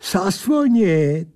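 the strange angel dragging the word out; smug angel. Acted. Angel answers smugly.

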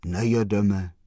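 a touch of hollow gloom, lightly voiced. The sad gentleman answers the postman in a lightly hollow voice. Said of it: "řekl dutým hlasem smutný pán".

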